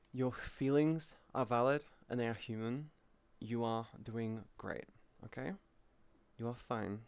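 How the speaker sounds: quiet, tender encouragement; gently telling chat they are valid; soft reassurance. Real, not acted. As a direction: soothe a sad viewer.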